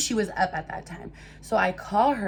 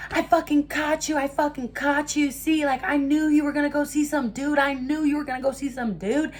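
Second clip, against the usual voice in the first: high, louder, accusing rant; imitated angry yelling; 6 semitones higher, 3 dB louder than usual. Ex accusing the speaker at the car window, imitated yelling. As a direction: mimic a worked-up man yelling accusations. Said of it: "He's just yelling".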